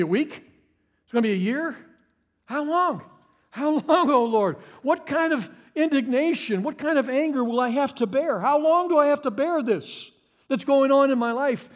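high, loud cry of how long; anguished lament. Acted. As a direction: plead with God, voice straining upward. Preacher crying out in lament.

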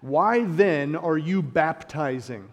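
slow, haughty demand; arrogant challenge. Acted. Pharisees' envoys questioning John, slow and haughty. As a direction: look down on him as you ask it. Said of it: "Listen to their arrogance".

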